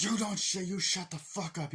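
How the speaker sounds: high, threatening villain imitation; hammed-up menacing order; mock movie villain. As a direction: act out a villain silencing someone. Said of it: "you have the main villain like".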